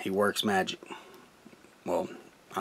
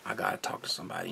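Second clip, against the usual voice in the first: fading urgency; 4 semitones lower, 12 dB quieter, much faster than usual. Retold or imitated. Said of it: "walked up there and I said".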